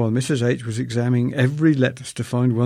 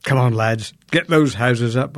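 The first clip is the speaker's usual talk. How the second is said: sarcastic; 3 dB louder than usual. Retold or imitated. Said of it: "I said sarcastically".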